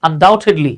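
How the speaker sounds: undoubtedly said as un-dau-ted-ly with no b sound; silent b. Shown as a demonstration. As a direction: drop the b in undoubtedly completely. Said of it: "বি কিন্তু silent থাকবে".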